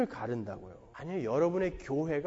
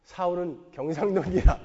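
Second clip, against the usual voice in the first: mock Gyeongsang preacher, lightly voiced and lower; a hint of a teasing Gyeongsang sermon; Gyeongsang dialect; 4 semitones lower than usual. Honam pastor mocking Gyeongsang folk from the pulpit, in light Gyeongsang dialect. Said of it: "이런 식으로 설교를 했다".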